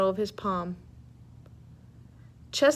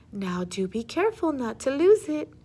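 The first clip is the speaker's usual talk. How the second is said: teasing; 3 semitones higher than usual. Acted. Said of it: "she teased him".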